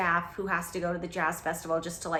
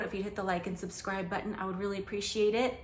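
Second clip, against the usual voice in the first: winded from running downstairs; breathless, a bit quick and soft; out of breath; 5 dB quieter, faster than usual. Real, not acted. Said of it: "I'm out of breath".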